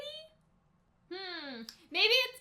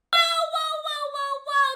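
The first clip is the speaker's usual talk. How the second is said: rising alarmed whoas, louder at first; shocked whoa; 7 semitones higher, 6 dB louder than usual. Real, not acted. Reactor startled by the girl on screen. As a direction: pull back in shock.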